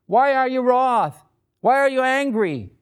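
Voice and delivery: a hint of surprised disbelief; asked in surprise. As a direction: ask it as if honestly surprised. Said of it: "It's almost like he asks in surprise".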